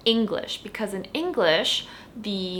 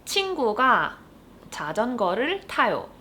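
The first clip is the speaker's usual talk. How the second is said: fast, natural Korean sentence; fast example sentence; 2 semitones higher, much faster than usual. Shown as a demonstration. Teacher giving the example sentence quickly. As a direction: rattle off the sentence at native speed. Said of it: "our example sentence for today is".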